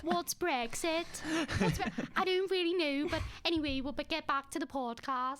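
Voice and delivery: put-on ditzy Liverpool girl, clueless; Haley impression. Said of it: "do your Haley".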